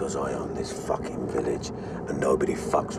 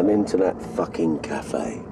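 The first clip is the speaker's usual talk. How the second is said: scornful disbelief; 5 semitones higher, slower than usual. Acted. Gangster mocks reverend's request.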